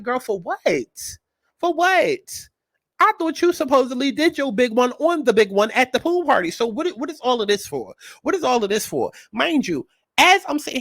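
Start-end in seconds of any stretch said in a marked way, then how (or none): 0.0-9.1 put-on higher, incredulous girl-talk; mock exasperation. Host scolding EBT for sneaking past security, incredulous and higher. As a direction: ask it like you can't believe her. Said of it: "I'm just like".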